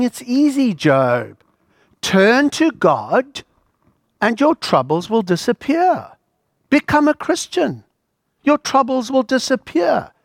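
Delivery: a hint of a smug preacher promising easy answers; glib comforter. Voicing Eliphaz lecturing Job.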